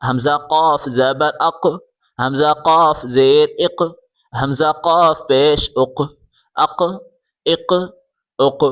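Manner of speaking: "اق" with a bouncing, echoed q; qalqalah. Shown as a demonstration. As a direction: release the q of "اق" with a short bounce. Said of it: "یہاں قلقلہ ہوگا".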